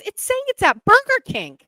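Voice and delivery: high, loud frantic squeal; panicky friend. Retold or imitated. Friend reporting the tracker's location, high frantic squeal. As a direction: squeal it like a panicked cat owner.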